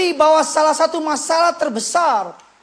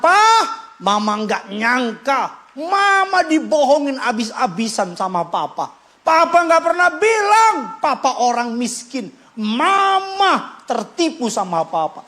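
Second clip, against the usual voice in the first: annoyed wife. Retold or imitated. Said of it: "istri sewot sama suaminya".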